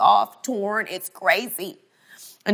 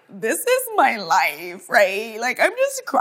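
retold despair; 4 semitones higher, slower than usual. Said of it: "And I'm like".

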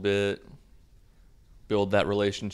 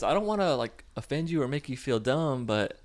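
higher-pitched gentle girlfriend imitation; mock sweet; 6 semitones higher than usual. Girlfriend reassuring him about God, high mock sweetness. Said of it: "she gets all sweet".

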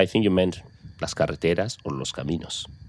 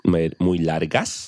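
slow model repeat; 2 semitones lower, slower than usual. Shown as a demonstration. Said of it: "very long".

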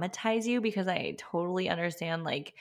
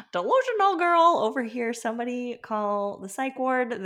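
much higher teasing mock announcement; self-mocking; 5 semitones higher than usual. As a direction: roast yourself playfully. Mocks herself wanting another.

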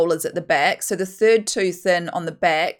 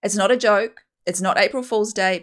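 outraged; 3 semitones higher, 5 dB louder than usual. Retold or imitated. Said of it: "I was outraged".

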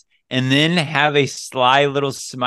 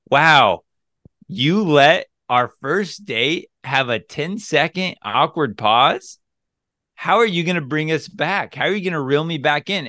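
playful teasing; 3 semitones higher than usual. Retold or imitated. Man smiling at his first date, teasing her to break the silence. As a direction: tease her into carrying the talk. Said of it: "I'll say it just like that".

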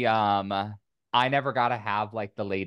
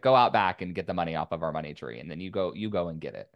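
lightly sarcastic mom, lower-pitched; 4 semitones lower, faster than usual. Retold or imitated. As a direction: imitate mom's dry sarcastic dismissal. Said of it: "she'd say it very sarcastically".

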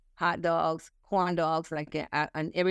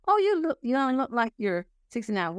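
mock gushing compliment, much higher and louder; mock flattering stranger; 6 semitones higher, 3 dB louder than usual. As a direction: play the gushing flatterer, pitched way up. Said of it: "human beings have done this".

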